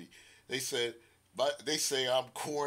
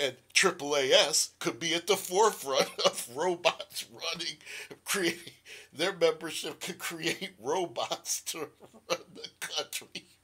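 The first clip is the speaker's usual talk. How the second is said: loud voice, laughing through the words; 4 semitones higher, 5 dB louder than usual. Speaker laughs at their own corny jokes, laughing while talking. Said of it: "I'm laughing at my own corny jokes".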